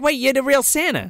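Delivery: amazed, taking it at face value; a stranger recognizes the real Santa; mock amazement. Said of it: "He's like".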